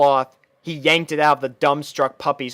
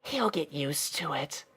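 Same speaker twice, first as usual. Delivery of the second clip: much softer, hushed aside; whispered; 12 dB quieter than usual. Acted. Twilight whispers to Rainbow about Spike, hushed. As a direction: lean in and keep it secret. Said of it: "she whispered to Rainbow".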